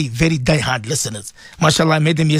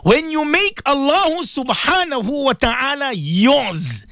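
higher, each word drawn out; slow emphatic plea; 9 semitones higher, slower than usual. Real, not acted. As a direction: lean hard on make. Emphatic sermon line.

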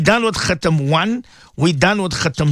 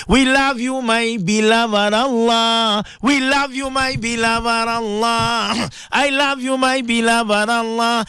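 slow, drawn-out, near tears on the name of Allah; devoted prayer; 4 semitones higher, slower than usual. Acted. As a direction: pour love into each line.

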